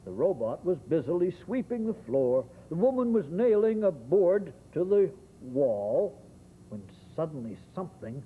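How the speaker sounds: lively rhyming read-aloud; story narration. Acted.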